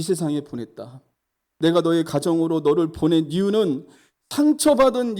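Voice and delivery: preacher quoting God emphatically. Retold or imitated. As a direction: declare it as God explaining a purpose. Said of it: "하나님께서 이렇게 말씀하셨습니다".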